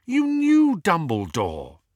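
high, drawn-out disbelief; impassioned challenge. A narrator's reading. Hermione urging Harry not to believe it, impassioned. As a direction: plead urgently, pitched well up.

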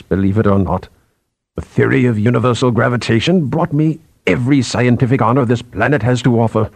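lightly voiced eminent boss, measured and candid; understated, authoritative confession; senior scientist confiding. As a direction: admit your vanity to a junior, with dignity.

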